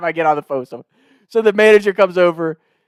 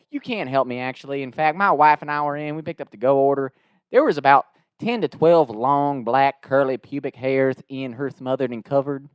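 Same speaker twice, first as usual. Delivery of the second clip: deadpan Southern complaint, slowing down; put-on drawling Southern customer; Southern twang; 3 semitones lower than usual. Prank caller complains to the assistant manager, Southern twang. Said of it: "this Southern twang".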